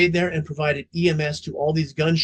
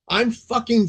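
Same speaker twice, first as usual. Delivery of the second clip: raised, higher mock yell at the captain; retold scream; 6 semitones higher, 3 dB louder than usual. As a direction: shout it like the furious rookie.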